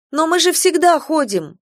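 bursting out high and loud; blurted out. Acted. Girl blurts protest at her father, high and urgent. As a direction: let it spill out before thinking. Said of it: "вырвалось у меня".

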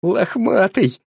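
high joyful call of the name; happy exclamation. A narrator's reading. Boy hugs the dog, delighted.

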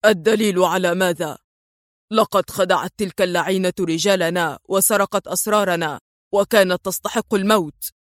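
ordinary delivery

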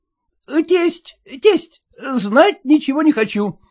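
a mild mock shout; husband to the caterer, a mild shout. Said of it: "закричал".

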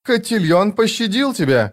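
high-pitched anxious twin sister; fearful, almost pleading. A narrator's reading. Frightened twin sister to the man who took their sword, high and almost pleading. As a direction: plead lightly, pitched well above the narration. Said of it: "почти с мольбой".

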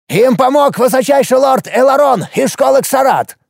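high, creaky, hurried offer; creaky dwarf bargaining. A narrator's reading. Dwarf Hopus offers Alex anything to be spared, high and creaky. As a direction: plead and bribe in a creaking voice.

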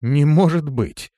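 stunned exclamation, drawn out; astonished. A narrator's reading. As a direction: Elfar cannot believe his ears. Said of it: "сильно удивлённый произнёс Эльфар".

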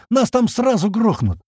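high, drawn-out protest; yelling back. A narrator's reading. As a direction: protest in alarm, slowly and emphatically. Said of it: "в ответ заорал на него Слива".

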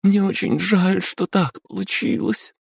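высоко, срывающимся от слёз голосом; плачет, прося прощения; through sobs. Acted. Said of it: "сквозь рыдание ответила она". (извиняется перед подругой сквозь слёзы)

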